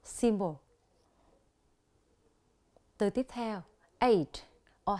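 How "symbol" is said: symbol stressed on SYM, falling after it; SYM-bol, first syllable stressed in symbol. Shown as a demonstration. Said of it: "nhấn ở âm tiết thứ nhất".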